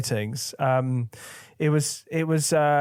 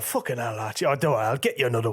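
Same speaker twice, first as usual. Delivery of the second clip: a rock singer's voice; faster than usual. Retold or imitated. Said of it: "your accent changed".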